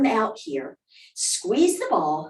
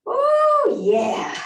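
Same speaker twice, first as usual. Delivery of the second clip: excited oh yeah. Real, not acted. Instructor enjoying the calf stretch.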